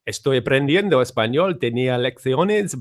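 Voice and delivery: Spanish-accented "Estoy aprendiendo español". Shown as a demonstration. Asked by a friend, a Spanish accent demo. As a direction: show off a rolled-R Spanish accent. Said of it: "Go on, do that one then".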